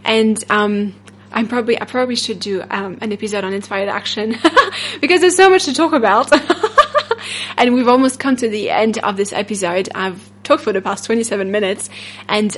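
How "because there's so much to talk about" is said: laughing through the words. Real, not acted. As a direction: giggle while saying it. Laughing at her own rambling.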